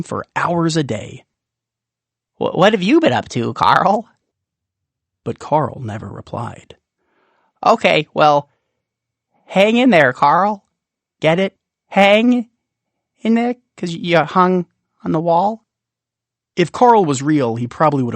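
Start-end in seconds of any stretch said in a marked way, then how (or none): 2.4-4.1 quick, faltering, lightly voiced little creature; eagerly hoping for an answer; lonely Rumple. Lonely Rumple asking his candy friend, eager little voice. 7.6-15.6 higher, louder, eager little creature voice; Rumple's joke. Acted. Rumple punning to the candy on his wall, eager and high.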